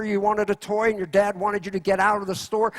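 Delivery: ordinary talk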